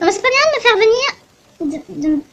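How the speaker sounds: put-on old lady scolding a tourist who startled her; indignant old lady. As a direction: scold like a frail old granny. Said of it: "une vieille dame délicate".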